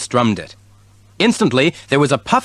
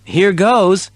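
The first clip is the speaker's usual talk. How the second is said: kitten voice; 8 semitones higher, 4 dB louder than usual. A narrator's reading. Kitten character voice.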